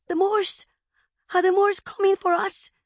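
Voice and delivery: put-on high, loud child's panicked cry; frightened child's scream. A narrator's reading. Little girl waking to fire in camp, screaming in fear. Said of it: "cried out in Spanish for her mother and screamed".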